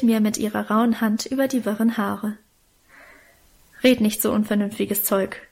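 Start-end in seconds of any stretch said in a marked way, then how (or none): none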